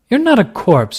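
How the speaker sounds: high, loud horrified cry; horrified protest. A narrator's reading. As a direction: cry it out in horror. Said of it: "she protested in horror".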